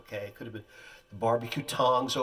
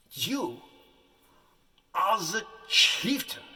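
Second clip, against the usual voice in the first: mock-tearful film director, louder and higher, drawn out; overwrought director; 6 semitones higher, 4 dB louder, slower than usual. Weeping director instructs actor at audition, hammed-up loud. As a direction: ham up a weeping director giving orders. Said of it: "He goes".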